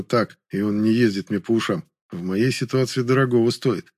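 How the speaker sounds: plain reading voice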